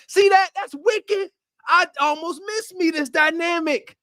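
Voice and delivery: excited exclamation. Real, not acted. Excited reaction to clip.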